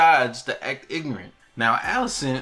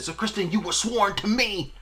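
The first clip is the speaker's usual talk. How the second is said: retold yell; 9 semitones higher than usual. Alicent reminding her sworn knight, high mock yell. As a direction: imitate her yelling without real volume. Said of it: "she just yelled and said".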